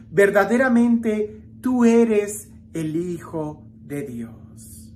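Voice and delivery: measured reading with long pauses; solemn gospel reading. A narrator's reading. Preacher reading the gospel to the faithful, solemn and measured. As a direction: read scripture aloud, phrase by weighted phrase. Reads the gospel passage aloud.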